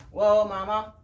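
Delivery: a loud whoa to stop the mare; calling whoa. Real, not acted. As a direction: call out firmly to the horse.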